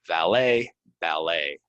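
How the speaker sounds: Valet with a clear v, ballet with a clear b; v versus b contrast. Shown as a demonstration. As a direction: hit the opening v and b sounds. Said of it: "the difference at the beginning, v and b".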